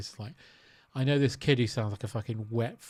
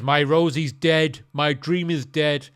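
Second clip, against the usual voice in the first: mock despair; 7 dB louder, slower than usual. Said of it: "He says".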